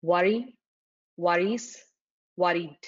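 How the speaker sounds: "worry, worries, worried" said one by one with clear endings; clear pronunciation. Shown as a demonstration. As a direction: separate "worry, worries, worried" with pauses, each ending distinct. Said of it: "Please pronounce words clearly".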